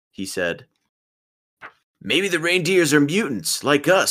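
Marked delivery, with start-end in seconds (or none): 2.0-4.1 lightly voiced Raphael. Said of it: "said Raphael".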